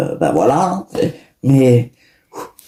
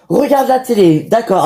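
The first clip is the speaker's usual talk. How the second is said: 1 sarcastic reproach; 4 semitones higher than usual. Acted. Mother mocks father's method.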